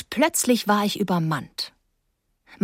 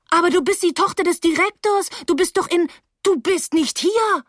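high-pitched disbelieving protest; incredulous; 9 semitones higher than usual. A narrator's reading. Narrator to her reappeared childhood friend, incredulous. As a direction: protest high, slowing at the end.

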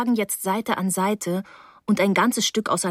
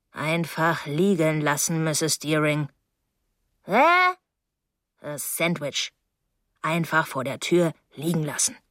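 put-on reluctant young man; 2 semitones lower than usual. Voices Terrapin answering through the door.

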